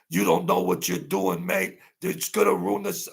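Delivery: hammed-up English musician storming off, pitch jumping high; mock quarrelling bandmate. Streamer mimics a bandmate walking out of a session, mock indignant. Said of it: "They were walking out of sessions".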